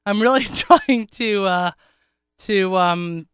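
raspy sick voice; rough, congested throat; hoarse voice. Real, not acted. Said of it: "I actually do sound this bad".

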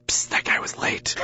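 slow hushed whisper. Retold or imitated. Whispering to a neighbour in shul about the latecomer, hushed. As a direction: lean over and whisper the gossip. Gossiping in shul during prayers.

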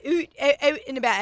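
imitating Canadian vowels; lightly mock a Canadian "eh"; a hint of Canadian accent. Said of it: "Canadians have a different accent".

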